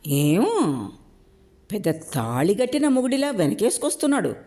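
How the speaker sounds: high, needling taunt; taunting jab. Acted. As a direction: jab at him with a sneer. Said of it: "ఎత్తి పొడిచాడు". (ఎత్తిపొడుపుగా)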